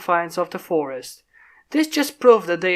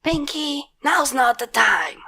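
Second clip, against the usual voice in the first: exasperated sigh; 7 semitones higher, slower than usual. Acted. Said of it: "sighed Rainbow Dash".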